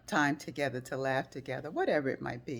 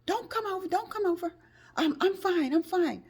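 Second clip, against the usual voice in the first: high, louder insisting voice; insistent refusal; 5 dB louder than usual. Retold or imitated. Friend telling speaker not to come, flustered. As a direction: wave off help, flustered.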